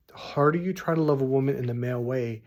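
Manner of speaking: usual speaking voice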